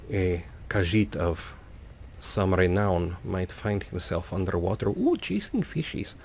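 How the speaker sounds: lightly voiced cat-folk, delighted by fish; Khajiit impression. Player imagines a Khajiit underwater, mildly playful Khajiit voice. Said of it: "insert other characters into certain situations".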